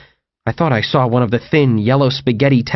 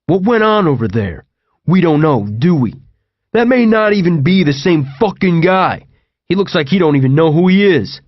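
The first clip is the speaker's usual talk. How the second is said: rebutting TJ; 4 semitones higher than usual. Acted. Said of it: "T J rebutted".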